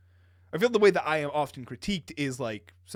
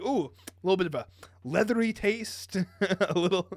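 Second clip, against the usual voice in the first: higher, lightly voiced connoisseur; mock whisky taster; 4 semitones higher than usual. Critic sampling a single malt, lightly hammed-up. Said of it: "the same way people describe single malts".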